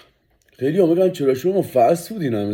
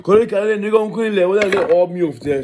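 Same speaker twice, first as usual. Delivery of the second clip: much higher and louder hype list; excited hype; 7 semitones higher, 6 dB louder than usual. Real, not acted. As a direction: sell every item like a barker. Hyping the food in a list. (تعریف پرشور و بلند از غذا)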